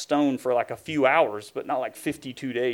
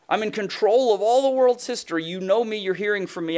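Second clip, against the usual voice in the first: God's excited call; 4 semitones higher than usual. Acted. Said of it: "He says".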